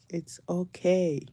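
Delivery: put-on calm the children down slowly; reassuring. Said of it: "I'm like".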